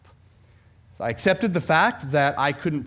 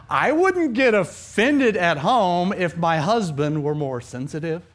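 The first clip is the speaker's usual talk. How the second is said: mock complaint; 5 dB louder, slower than usual. Voicing an imagined complaining listener.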